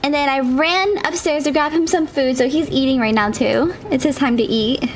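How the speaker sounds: breathless after running stairs; winded, talking between breaths. Real, not acted. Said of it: "I'm a little out of breath right now".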